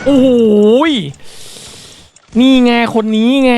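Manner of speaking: high, loud burst spotting the target; excited shout. Real, not acted. Gamer shouting to viewers on spotting the enemy, excited. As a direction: yell it out as you spot him.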